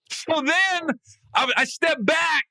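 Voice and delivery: high, slow words through laughter; laughing. Real, not acted. Storyteller laughing hard while retelling the match. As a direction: push the words out between laughs.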